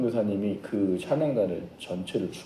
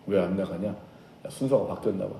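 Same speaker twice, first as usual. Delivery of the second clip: puzzled conferring; 4 semitones lower, 5 dB quieter than usual. Acted. Disciples puzzling over failure.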